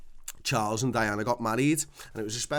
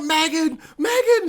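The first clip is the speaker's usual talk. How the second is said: high, loud shrieked name; thrilled mum; 10 dB louder, slower than usual. Retold or imitated. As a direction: squeal the name, too excited to speak. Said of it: "And she's like".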